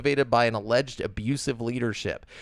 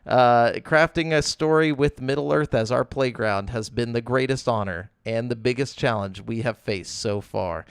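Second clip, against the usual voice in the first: flat robotic reading; deadpan corporate read, no feeling; bored recitation; 2 semitones higher than usual. Shown as a demonstration. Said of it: "when you read it like a robot".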